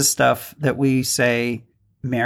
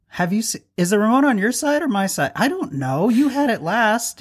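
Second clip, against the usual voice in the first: bickering spouse; 7 semitones higher than usual. Acted. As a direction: nag about the remote. Acting out couple bickering.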